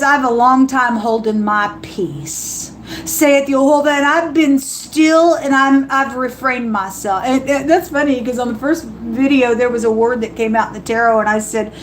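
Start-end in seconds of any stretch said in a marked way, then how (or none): 0.0-7.2 measured voice of God quoted; scripture reading. Acted. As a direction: read it like holy writ. Reading God's words aloud.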